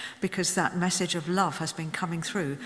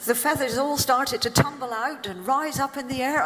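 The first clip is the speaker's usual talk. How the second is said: laughing; 6 semitones higher than usual. Real, not acted. Laughing while telling.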